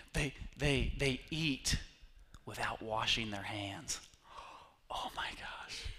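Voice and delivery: hushed whisper, as if sharing gossip; mock scandalized whisper. Pastor whispering the scandal of unwashed hands to the congregation. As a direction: whisper it like a shocking secret. Scandalized aside about disciples.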